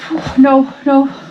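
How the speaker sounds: quavering, wobbly, shaking, trembling voice. Answering whether you need to get out: shaking. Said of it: "I'm shaking".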